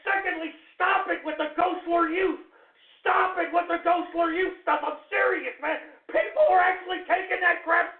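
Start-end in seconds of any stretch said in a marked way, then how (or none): 3.0-4.8 raised, exasperated yell at callers; annoyed shout. Real, not acted. Host yelling at joking callers to stop, angry shout. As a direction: tell them off to stop it now.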